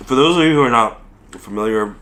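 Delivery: garbled through a mouthful; mouth full. Real, not acted. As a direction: speak around a bite of food. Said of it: "not talk with my mouth full".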